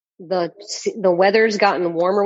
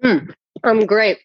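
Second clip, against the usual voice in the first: talking while chewing chips; mouth full; 3 semitones higher, 3 dB louder than usual. Real, not acted. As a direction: say it through a mouthful of Doritos. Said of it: "Sorry, I'm just eating some Doritos".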